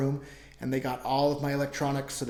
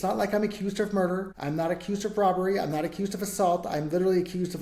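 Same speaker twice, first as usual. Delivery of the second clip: heated, higher voice of outrage; rising indignation; 4 semitones higher than usual. Real, not acted. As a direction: push back, pitch up in disbelief. Indignant protest over his charges.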